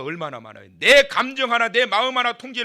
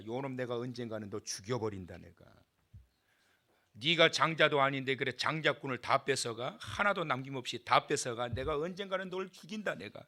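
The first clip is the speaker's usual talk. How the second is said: muttered vengeance; 6 semitones lower, 8 dB quieter than usual. Acted. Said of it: "이십 년을 칼을 갑니다".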